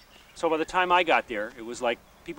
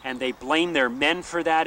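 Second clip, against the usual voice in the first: ordinary talk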